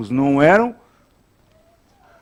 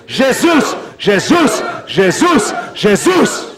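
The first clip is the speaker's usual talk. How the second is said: high repeated cry of the name; shouted louder; 6 semitones higher, much slower than usual. Real, not acted. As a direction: whip the congregation into a shouted chant. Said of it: "mais alto".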